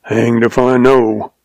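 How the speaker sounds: slow, mildly irritable reply; irritable growl. Acted. Old rancher answers the young visitor, irritably growling. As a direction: draw it out with a touch of irritation. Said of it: "growled the oldster irritably".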